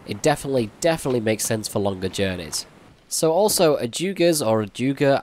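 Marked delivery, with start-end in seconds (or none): 3.8-5.2 "ajugas or ajuga" with a "joo" middle; tentative pronunciation. Shown as a demonstration. Gamer unsure how to pronounce the plant's name, tentative pronunciation. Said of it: "I think that's how you pronounce it".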